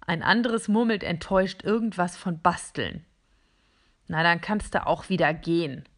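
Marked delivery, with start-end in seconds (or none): 4.1-5.9 grumpy. Acted. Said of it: "sagt ein Gerät grummelig".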